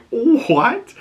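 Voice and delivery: stunned by the stabbing; shocked what. Retold or imitated. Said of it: "you're like".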